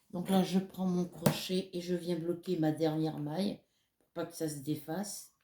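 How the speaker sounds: usual speaking voice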